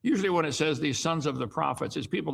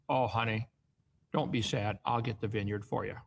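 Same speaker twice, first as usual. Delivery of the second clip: lower, lightly voiced coaxing wife; wicked Queen Jezebel; 4 semitones lower than usual. Jezebel coaxes her sulking husband, lightly voiced and sly. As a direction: sweet-talk him like a scheming queen. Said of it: "This is wicked Queen Jezebel here".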